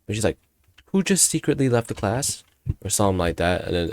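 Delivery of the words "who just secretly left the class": raised-pitch teacher's question; teacher calling out. Retold or imitated. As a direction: call it out higher, to the room. Voices teacher questioning the class.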